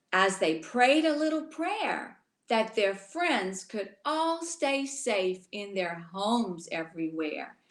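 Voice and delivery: put-on rhythmic rhyming read-aloud for children; storybook reading. A narrator's reading. Teacher reading a rhyming book to children, gently. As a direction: read the rhymes to the little ones.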